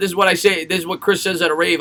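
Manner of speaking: ordinary talk, nothing marked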